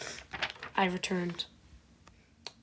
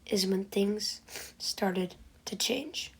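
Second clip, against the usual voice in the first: whispering; 6 dB quieter, slower than usual. Acted. Dramatic storytelling whisper.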